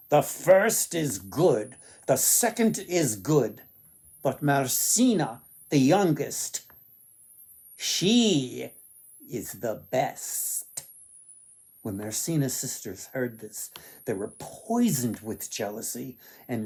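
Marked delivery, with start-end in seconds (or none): 0.1-10.8 slow, measured voice of the sun; grave verdict, taking time; solemn sun. Acted. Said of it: "Again the sun replied".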